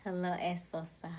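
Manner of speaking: lightly British-accented hello. Shown as a demonstration. Streamer repeating a viewer's greeting, slight British accent. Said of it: "slipped on to her British accent".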